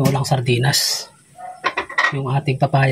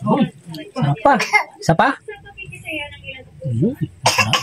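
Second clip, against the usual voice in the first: mouth full of hot food; 11 semitones higher, 4 dB quieter than usual. Real, not acted.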